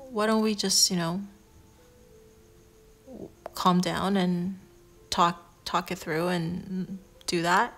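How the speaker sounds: a lightly soothing, slowed calm-down line. Shown as a demonstration. Reader showing how to calm an angry partner, mildly soothing. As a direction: gently talk a yelling partner down, lightly soothing. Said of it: "like, a really soothing voice".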